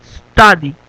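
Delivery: "Study" begun straight on a long hissed S; initial S, no vowel. Shown as a demonstration. Teacher modelling for Spanish speakers, "Study" starting on S. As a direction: say "Study" with no e before the S. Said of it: "se pronuncia a partir de la S".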